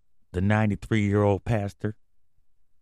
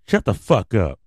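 sudden loud shout; 5 dB louder than usual. Acted. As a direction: bark it out angrily. Yells at the character voice.

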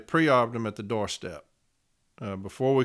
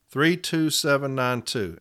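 slow repeat; slower than usual. Shown as a demonstration. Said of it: "in front of arbitrator Louise Wolitz".

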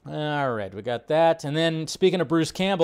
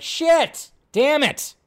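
mock dismay; 11 semitones higher, 4 dB louder, much slower than usual. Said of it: "And I was like".

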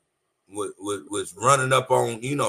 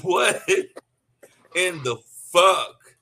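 stunned disbelief; 4 semitones higher, 4 dB louder, much slower than usual. Real, not acted. Stunned reaction to diss line.

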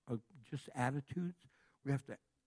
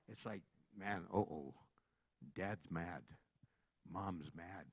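hushed worry; 10 semitones lower, 7 dB quieter than usual. Retold or imitated. Kids fearing angry parents.

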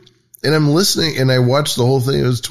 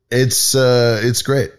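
usual speaking voice

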